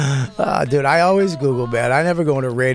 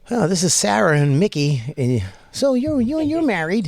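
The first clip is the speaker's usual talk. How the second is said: high, bright morning-show hosts; gushing radio host voice; cheesy radio host; 6 semitones higher than usual. Retold or imitated. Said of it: "husband and wife radio".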